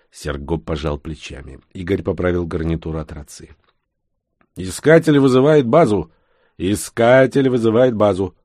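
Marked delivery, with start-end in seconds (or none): 4.6-8.4 police radio. A narrator's reading. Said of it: "в эфире".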